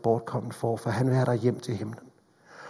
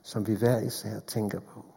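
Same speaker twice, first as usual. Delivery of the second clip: closing prayer. Acted.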